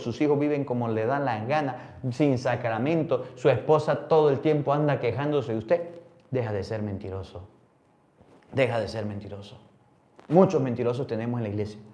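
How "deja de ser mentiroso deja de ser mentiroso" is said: reproche bajo. Acted. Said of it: "reprende en voz baja".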